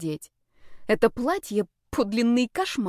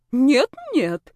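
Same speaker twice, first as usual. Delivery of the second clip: sly; 6 semitones higher, 6 dB louder than usual. A narrator's reading. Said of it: "хитро сверкнула медовыми очами".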